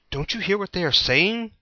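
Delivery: Pilate pressing Jesus, high demanding voice. A narrator's reading. Pilate questions silent Jesus, demanding. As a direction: push him for an answer. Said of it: "Pilate demanded".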